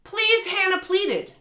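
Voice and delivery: exaggerated pleading read of a cringey sentence; mock dramatic pleading. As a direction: ham up the bad line to mock it. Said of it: "a line in the book where it says".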